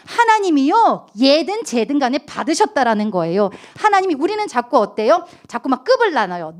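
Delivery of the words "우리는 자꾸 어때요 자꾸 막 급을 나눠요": usual speaking voice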